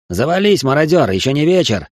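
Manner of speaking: sharp retort. Acted. Retort against a rogue.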